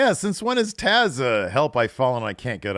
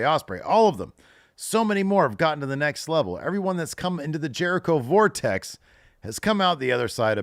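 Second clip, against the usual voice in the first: higher, hammed-up smarmy mentor voice; mock Jericho promo; 5 semitones higher, 3 dB louder than usual. Host retelling Jericho's speech to Hook, hammed-up higher mentor voice. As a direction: play the preachy veteran lecturing the kid.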